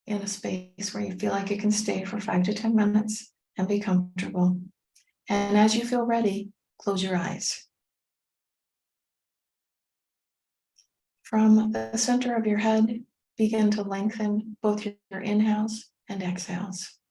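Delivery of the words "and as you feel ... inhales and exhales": measured meditation guide with long pauses; guided meditation. Acted. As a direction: gently lead listeners inward, phrase by phrase.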